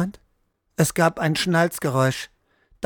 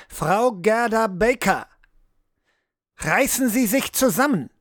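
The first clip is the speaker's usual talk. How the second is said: raised, urgent, higher voice; sharp command; 5 semitones higher than usual. Acted. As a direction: snap her out of a trance. Riedel shakes her awake.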